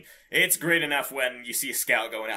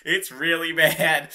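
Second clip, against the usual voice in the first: laughing; 4 semitones higher, 4 dB louder, slower than usual. Real, not acted. Laughing at the update.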